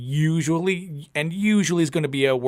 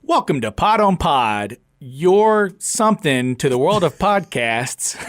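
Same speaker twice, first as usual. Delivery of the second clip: louder, slower announcer read; radio voice; 2 semitones higher, 4 dB louder than usual. Shown as a demonstration. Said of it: "I'm gonna try for real".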